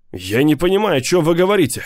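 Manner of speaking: bursts out in indignant disbelief; exclaiming. A narrator's reading. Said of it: "воскликнул". (возмущённый высокий возглас)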